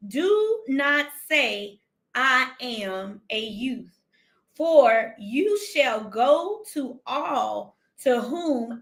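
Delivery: very slow, measured preaching read; slow scripture reading. Acted. Preacher reading God's answer to Jeremiah, very slow measured read. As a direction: lay each word down slowly. Reads God's reply slowly.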